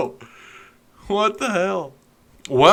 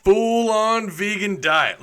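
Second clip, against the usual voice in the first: mock zealous vegan; 8 semitones higher, slower than usual. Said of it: "That was supposed to be a joke".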